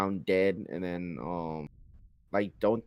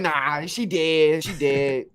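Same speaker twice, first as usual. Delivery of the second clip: slow offhand dismissal; 4 semitones higher, 3 dB louder, slower than usual. Retold or imitated. Hero dismisses the girl's plea.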